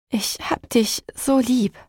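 mother's voice quivering with relief; trembling voice. Acted. Mother holding her son, voice trembling. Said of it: "sagte ich mit zittriger Stimme".

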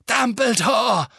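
slow, high, gasping in shock; stunned gasp. A narrator's reading. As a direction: gasp the name in disbelief. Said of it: "keuchte Fudge außer sich vor Verblüffung".

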